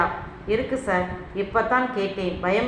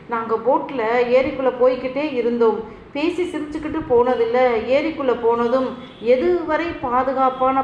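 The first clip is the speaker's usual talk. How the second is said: wailing; 3 semitones higher than usual. Acted. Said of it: "என்று கதறினாள்".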